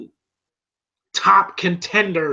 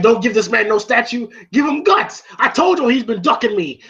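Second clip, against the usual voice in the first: mild mock heckle, pitched up; heckling; 5 semitones higher than usual. Challenger barging into Rocky's ceremony, mock heckling. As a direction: imitate a boxer calling out a rival. Retelling Clubber Lang's heckling.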